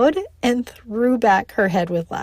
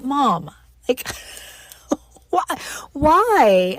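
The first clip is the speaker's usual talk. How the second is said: laughing plea; 4 semitones higher, slower than usual. Retold or imitated. Pleading with laughing mom about the word, giggling disbelief. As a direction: beg her to explain through laughter. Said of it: "And I was like".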